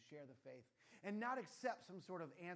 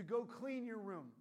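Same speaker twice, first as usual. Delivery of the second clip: louder, higher, slow stern command; stern dad; 5 semitones higher, 9 dB louder, slower than usual. Pretend. Dad ordering his daughter, stern and loud. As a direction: lay down the law to his daughter.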